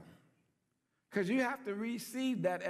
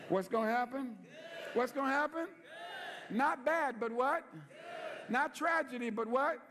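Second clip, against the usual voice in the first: call and response; 4 semitones higher than usual. Real, not acted. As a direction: fire the questions out to the crowd.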